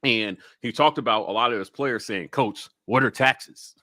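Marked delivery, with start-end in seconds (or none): none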